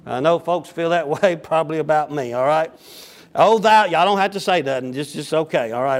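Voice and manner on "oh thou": anguished cry. Acted. Widow cries out at the prophet.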